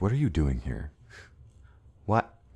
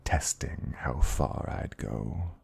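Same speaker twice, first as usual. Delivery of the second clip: mock dominant. Playing dominant role over music.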